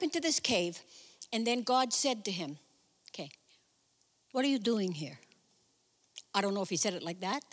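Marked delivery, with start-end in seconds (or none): 3.1-5.2 lightly voiced nagging Jewish mother; a hint of a mother's exasperated question. God asking Elijah, a light Jewish-mother nag. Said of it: "I'm saying it like a Jewish mother".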